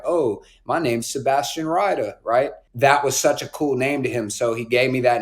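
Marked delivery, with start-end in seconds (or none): 0.0-2.1 lightly imitated British accent; fake British accent. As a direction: put on a bit of fake British, as dad's party trick. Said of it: "put on a fake British accent".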